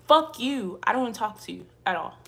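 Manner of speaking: loud furious yell at the haters; real shouted outburst; angry shout. Real, not acted. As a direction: blow up at them, fast.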